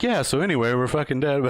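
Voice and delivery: talking out the side of the mouth; lopsided mouth, words slurred sideways; out of mouth corner. Shown as a demonstration. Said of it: "talking out of the side of my mouth".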